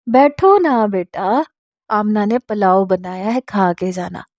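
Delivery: slow, coaxing motherly invitation to stay and eat; affectionate urging. Acted. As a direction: press him kindly to eat. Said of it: "मोहब्बत से बोलते हुए". (धीमे, प्यार भरे लहजे में मनाना)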